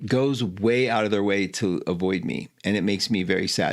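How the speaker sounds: understated, low sincere quote; heartfelt sadness. Retold or imitated. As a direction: retell it low, with a touch of sadness. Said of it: "meant it from his heart".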